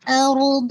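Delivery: ارض with thick raa and daad; heavy letters demo. Shown as a demonstration. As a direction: fatten the r and d of ارض. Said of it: "دوئی کو آپ نے موٹا کرنا ہے". (ارض میں موٹے را اور ضاد)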